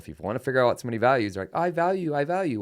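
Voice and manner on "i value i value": mock claim. Mocking what people claim.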